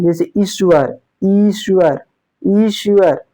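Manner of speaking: ईश्वर with a long, drawn ई; teacher modelling ईश्वर slowly; long ee demo. Shown as a demonstration. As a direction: stretch the ई in ईश्वर. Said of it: "ई जो है ये दीर्घ स्वर है".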